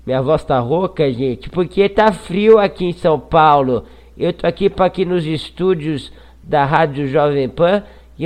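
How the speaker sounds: high, slow, put-on hoarse voice. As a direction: rasp it out like a hoarse old broadcaster. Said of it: "participação especial de Augusto Nunes".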